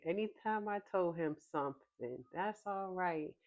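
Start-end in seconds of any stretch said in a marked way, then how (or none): 2.3-3.3 imitating grandpa. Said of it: "he had different inflections for".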